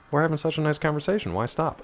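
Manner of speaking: creepy man. Pretend. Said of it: "I'm being a creepy man".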